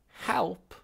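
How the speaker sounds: high, loud baffled "Help?"; as if asked something absurd; incredulous. Acted. Ancestor incredulous again.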